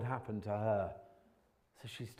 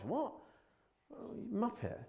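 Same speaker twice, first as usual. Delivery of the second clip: self-mocking; 12 semitones higher, 3 dB quieter than usual. Real, not acted. Laughing at himself.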